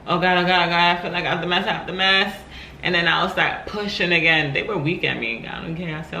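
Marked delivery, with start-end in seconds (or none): 0.1-2.4 higher, rapid-fire complaint; retold labor panic. New mom acting out her pushing, in mock panic.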